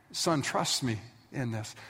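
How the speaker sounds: soft, slow fatherly voice; calm him gently, slowly; father comforting his terrified son; tender reassurance. Retold or imitated. Abraham calming son.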